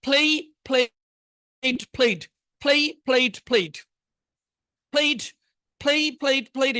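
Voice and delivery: প্লে then প্লেড, clear and deliberate; drill pronunciation. Shown as a demonstration. Teacher drilling verb forms with the class. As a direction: say প্লেড with a sharp d at the end. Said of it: "আজকে আমরা ই টেন এর ব্যবহার দেখবো".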